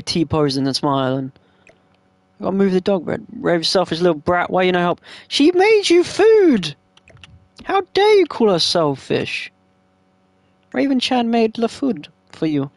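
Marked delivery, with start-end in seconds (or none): 2.4-12.7 wicked stepmother. Pretend. Berating the Sim child.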